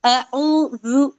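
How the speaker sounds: अऊजु drawn out slowly with a rise; slow careful demo. Shown as a demonstration. Teacher demonstrating अऊजु for the students. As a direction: stretch out अऊजु gently. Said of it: "तो इसको हम पढ़ते हैं औजु".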